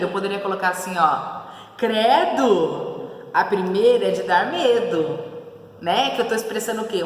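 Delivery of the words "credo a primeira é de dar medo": lightly acted horrified exclamation; emphatic, drawn-out fearful reaction; mock terror. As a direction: stretch out credo in dread. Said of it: "Um terror".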